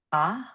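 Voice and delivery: "a" said as an open ah; open vowel demonstration. Shown as a demonstration. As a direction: open the mouth on "a": ah. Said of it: "just opening up mouth".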